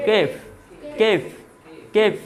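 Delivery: কেফ repeated with a hard k, no puff; unaspirated k. Shown as a demonstration. Teacher drills class on the correction, unaspirated কেফ. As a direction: drill কেফ without air after k. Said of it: "খেফ হইতো না, কেফ".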